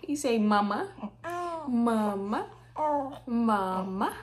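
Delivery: put-on high coaxing voice to a baby; teaching baby to say mama. Shown as a demonstration. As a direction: coax the baby to say it. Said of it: "put your lips together and say".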